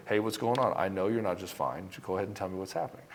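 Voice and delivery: steady, even ask with no apology; calm but firm. Shown as a demonstration. Coach demos calm firm way to ask his partner. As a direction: settle in and ask firmly, gently. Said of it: "in a calm but firm manner".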